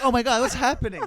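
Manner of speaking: high panicked squeal through laughs; laughing mock panic. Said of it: "You're like".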